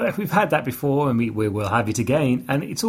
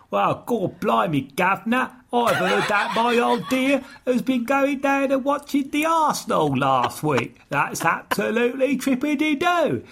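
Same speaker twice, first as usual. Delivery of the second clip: mock Cockney; 11 semitones higher than usual. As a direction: overdo a bad Cockney accent, drawn out and high. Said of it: "Dick Van Dyke, uh, School of English Language".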